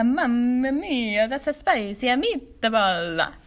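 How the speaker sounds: slow mock Italian accent, her own variation. Shown as a demonstration. Showing her own variation, slow mock Italian accent. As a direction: stretch mia and meatball out, Italian style. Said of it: "different variations, different tones".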